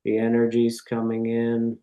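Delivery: calm meditation voice with long pauses; guided meditation. Real, not acted. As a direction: guide listeners gently, one phrase at a time.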